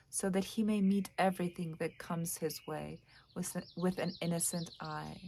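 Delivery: measured essay reading with pauses between phrases; lightly formal read-aloud. Acted. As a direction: read the excerpt out thoughtfully, phrase by phrase. Reads essay excerpt aloud.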